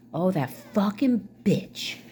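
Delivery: slow, lightly voiced scornful mother; a hint of drawn-out mock contempt; contemptuous mother. Mother referring to her daughter, contemptuous. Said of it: "that's how my mother refers to me".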